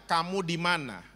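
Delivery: gentle, calm question; not angry. Acted. Preacher voices God gently seeking Adam, calm. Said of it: "Intonasinya tidak marah".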